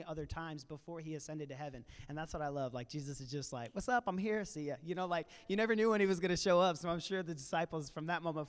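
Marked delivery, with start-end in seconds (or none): 3.7-4.8 quick, easy-going hey-there voice; a light playful pop-in, raised and louder; breezy casual greeting. Retold or imitated. Jesus dropping in casually.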